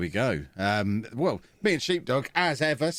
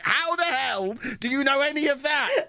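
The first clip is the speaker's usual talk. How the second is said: mock disbelief; 10 semitones higher than usual. Wife's retold disbelief.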